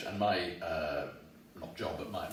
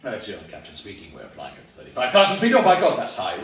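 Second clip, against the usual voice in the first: loud, rising panicky announcement; hammed-up frightened captain; nervous pilot; 3 semitones lower, 11 dB louder than usual. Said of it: "a pilot saying".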